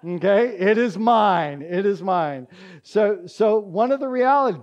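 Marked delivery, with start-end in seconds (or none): 0.6-2.5 firm, deliberate "It is mine"; emphatic repetition. Shown as a demonstration. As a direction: stake your claim on "mine", weighting each word. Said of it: "that's how emphatic this is".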